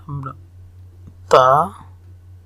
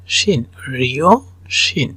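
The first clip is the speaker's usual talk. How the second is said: slow demo; slower than usual. Shown as a demonstration.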